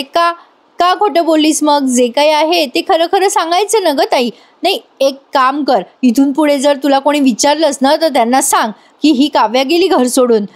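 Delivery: lightly acted flare-up at her sister; mock angry retort. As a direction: younger sister snapping back, mildly acted. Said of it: "हे ती राग राग बोलते".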